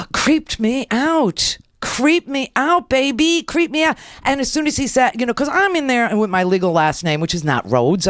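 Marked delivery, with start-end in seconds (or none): 0.1-4.0 gasp, then high, drawn-out mock horror; creeped out. Host recalls being recognized by the nurse, creeped out. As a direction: stretch it out high in exaggerated dread.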